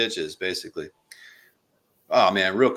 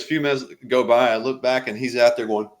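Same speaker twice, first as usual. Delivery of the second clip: higher, louder, animated storytelling voice; mock Chappelle; 4 semitones higher, 6 dB louder than usual. Retelling a Chappelle drunk-driving bit, loud animated voice. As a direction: tell it up high and loud like the comedian. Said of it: "he goes".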